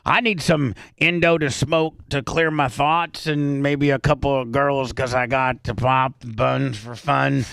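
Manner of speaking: country-tinged rhythmic rap; fake country accent. Shown as a demonstration. Radio host auditioning his rap as country, light fake twang. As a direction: rap it like a mock hill jack, light twang. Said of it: "acting like I'm a, a hill jack".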